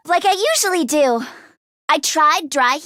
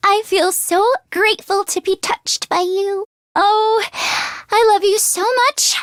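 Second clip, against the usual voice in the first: tender confession. Acted. Love confession, breathless.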